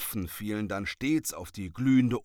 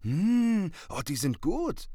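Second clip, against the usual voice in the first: high, savouring "mmm" of surprise; delighted surprise; 9 semitones higher, 5 dB louder than usual. A narrator's reading. Little witch tastes roast chestnuts, pleasantly surprised. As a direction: discover how good it tastes. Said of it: "rief sie überrascht".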